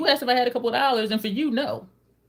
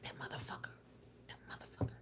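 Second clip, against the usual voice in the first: hushed whisper under the breath; whispered curse; 21 dB quieter, faster than usual. Retold or imitated. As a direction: hiss it to yourself in disbelief.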